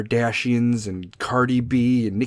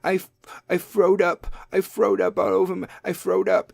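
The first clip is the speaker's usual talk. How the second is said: a lightly voiced babyish lisp, a touch higher; lisping kid; 5 semitones higher than usual. Mom imitates her kid's cute lisp after throwing up. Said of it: "I could put a little lisp on".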